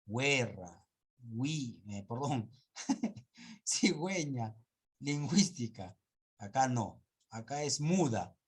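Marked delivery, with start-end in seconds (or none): 0.1-1.8 "Guerra" said as werra, "wi" with W; U sounded. Shown as a demonstration. Teacher slipping while illustrating the sounded U, demonstrating. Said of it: "se va a pronunciar la U". 3.7-6.0 "Cigüeña, lingüística" with clear gwe and gwi; carefully articulated W glide in both words; U sounded. Shown as a demonstration. Teacher illustrating the dieresis rule, demonstrating. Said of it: "se va a pronunciar la U".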